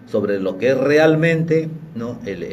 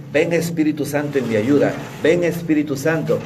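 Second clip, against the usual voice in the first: raised, higher-pitched plea to the Spirit; calling in prayer; 4 semitones higher than usual. Acted. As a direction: act out a prayer, calling upward.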